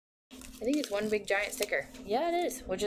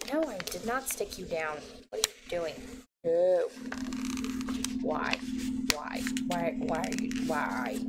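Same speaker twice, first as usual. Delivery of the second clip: dramatic protest. Real, not acted. Crafter protesting as the sticker sticks down, dramatic. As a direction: plead dramatically with a misbehaving sticker. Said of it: "That was dramatic".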